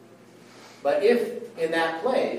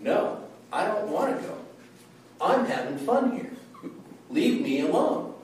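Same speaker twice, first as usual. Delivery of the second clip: higher, whiny voice of someone refusing to go; mock protest; 4 semitones higher than usual. Preacher voicing a reluctant sinner, mock whiny protest. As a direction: play a sulky person pushing God away. Sinner resisting God, acted quote.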